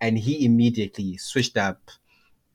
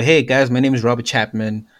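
lightly put-on posh cheese boy twang; a hint of privileged cheese boy accent. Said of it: "cheese boy, cheese boy".

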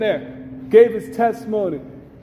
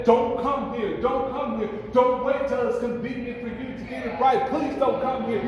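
a touch of hushed pleading; pleading souls; 6 semitones higher, 5 dB quieter than usual. Acted. People in hell pleading with the living, mild hushed plea. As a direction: beg them not to follow you down.

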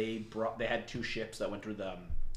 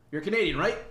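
higher, louder mock American; lightly put-on American accent, pitched up; exaggerated American accent; 7 semitones higher, 5 dB louder, faster than usual. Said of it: "this does sound like an American".

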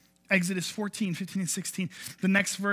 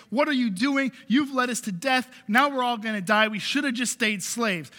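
mildly heated accusation, pitched up; acted complaining crowd; 3 semitones higher than usual. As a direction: voice the people's complaint at their leader, half in earnest. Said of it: "all of these Hebrews behind him saying".

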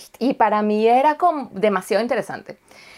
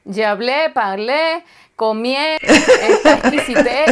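hammed-up fake French, slow and partly louder; mock French accent; 4 dB louder, slower than usual. Joking to a friend about inventing words, in mock French accent. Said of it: "Ah, sí, yo hablo francés".

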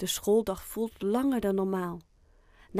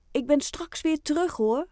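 reassuring; 8 semitones higher, 4 dB louder than usual. Acted. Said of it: "zegt Oscar geruststellend".

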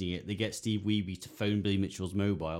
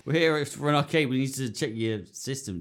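breezy nerd visitors; 5 semitones higher than usual. Retold or imitated. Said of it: "It's like".

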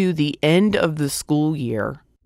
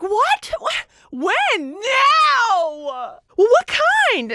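flustered mom; much slower than usual. Retold or imitated. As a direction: pitch up into a frazzled mom. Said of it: "she's like".

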